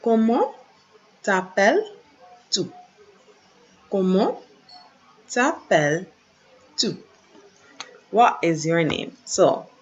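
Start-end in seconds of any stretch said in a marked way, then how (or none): 0.0-2.7 slow model reading. Shown as a demonstration. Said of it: "another way we can ask that". 3.9-7.0 slow model reading. Shown as a demonstration. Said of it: "another way we can ask that".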